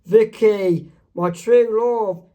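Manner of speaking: excited greeting. Acted. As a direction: greet your true love excitedly. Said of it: "Mark Chang's excited to see Vicky".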